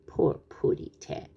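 slow, hushed sympathy; pitying. Acted. Tweety feeling for the stranded cat, slow pitying voice. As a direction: soften and stretch it in pity.

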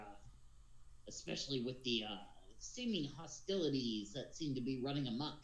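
lightly voiced pirate captain; a touch of pirate, hesitant and winding. Captain explaining the island to strangers, lightly voiced pirate. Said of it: "being able to do a pirate voice".

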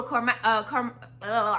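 tongue-tied restart; stumbling over words. Real, not acted. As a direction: trip over the word. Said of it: "I can't talk".

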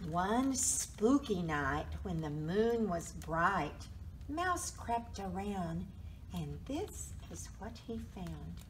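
slow, measured storybook reading; spooky bedtime-story pacing; story narration. A narrator's reading. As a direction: read it slowly to small children.

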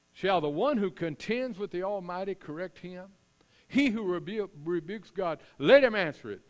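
Lord's voice. Acted. God demanding that Job answer, commanding and building. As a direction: press him, then demand the answer loudly. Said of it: "the Lord answered Job".

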